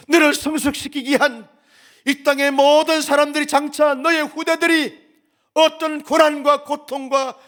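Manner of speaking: loud, driving sermon as God's voice; forceful preaching. Acted. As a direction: proclaim it over the congregation. (힘찬 설교조)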